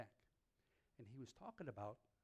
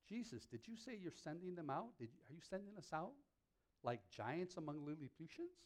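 incredulous, a bit higher, asking Jesus; mock disbelief; 4 semitones higher than usual. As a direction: play it as a shocked question.

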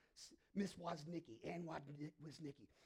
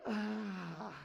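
loud, startled gasp; shocked gasp; 2 semitones higher, 6 dB louder than usual. Retold or imitated. Boy sees teacher on couch, gasps loudly. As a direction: gasp like you're caught.

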